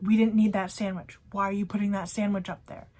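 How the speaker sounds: loud, mildly snapped imitation of a coworker; irritated yelling, retold. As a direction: imitate a coworker telling someone off, starting loud. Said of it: "yelling at me".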